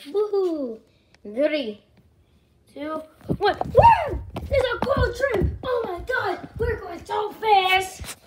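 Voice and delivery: thrilled high-pitched whoops; sledding downhill. Real, not acted. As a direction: squeal like flying down a hill. Sledding downhill ride on screen.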